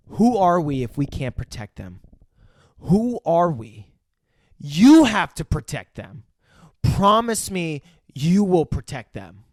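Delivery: slow, pleading quote, lightly acted; dragging out her desperate plea; quoting Emily Blunt. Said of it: "the dialogue that she ends up saying here".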